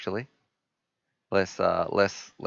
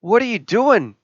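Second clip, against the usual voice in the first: much higher, alarmed voice in his head; his own brain scolding him in shock; panicked inner voice; 12 semitones higher, 5 dB louder than usual. Retold or imitated. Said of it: "my brain just went".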